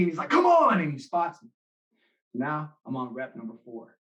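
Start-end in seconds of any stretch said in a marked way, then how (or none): 0.3-0.8 high, loud push from the spotter; urging shout. Retold or imitated. Hero spots the sophomore and shouts him on, loud. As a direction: drag him up with your voice.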